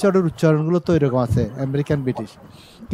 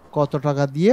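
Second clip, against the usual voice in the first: ordinary talk, nothing marked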